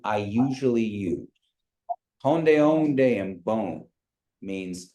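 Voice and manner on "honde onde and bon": "Honde, onde, and bon" with a falling end; statement tune. Shown as a demonstration. Teacher repeats the Kiowa greeting for the class. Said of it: "you say it just like a statement".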